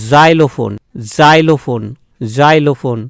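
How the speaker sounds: "জাইলোফোন" opened with a buzzing z; half j, as z. Shown as a demonstration. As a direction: model "জাইলোফোন" clearly, z not j. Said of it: "ভালো করে উচ্চারণটা শুনবে".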